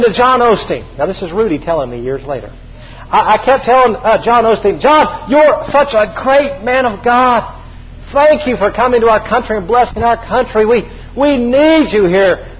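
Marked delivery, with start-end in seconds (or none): 4.8-12.6 fawning flatterer. Retold or imitated. Rudy gushing compliments at John Osteen, mildly mock-fawning. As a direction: pile on the praise, a bit higher.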